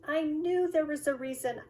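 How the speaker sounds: put-on high, loud kid's exclamation; dismayed child. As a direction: cry out in cartoonish frustration. Drew dismayed at forgetting.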